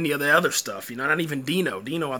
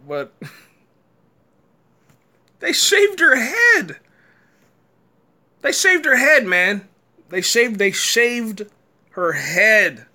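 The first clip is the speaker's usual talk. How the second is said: loud, high, slow disbelieving laugh-shout; laughing out loud in disbelief; 6 semitones higher, 6 dB louder, slower than usual. Real, not acted. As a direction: howl it through laughter. Disbelief at the shaved head.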